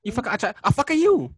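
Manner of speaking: high, loud, hammed-up Asian accent; mock Asian accent. Shown as a demonstration. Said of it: "I try to do an Asian accent".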